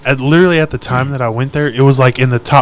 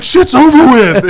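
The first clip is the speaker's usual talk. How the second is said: slow, higher, louder mock yell; retold yell; 11 semitones higher, 7 dB louder, slower than usual. Pinned under the pickup, telling the bull rider it's over, slow mock yell. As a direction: drag out the words, yelling that it's done. Yelling while holding attacker down.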